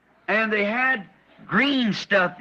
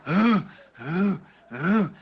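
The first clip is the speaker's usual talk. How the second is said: eerie moan; 3 semitones lower, slower than usual. Retold or imitated. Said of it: "they were going".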